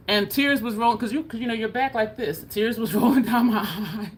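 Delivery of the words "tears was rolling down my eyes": laughing. Real, not acted. Laughs recalling crying at dentist.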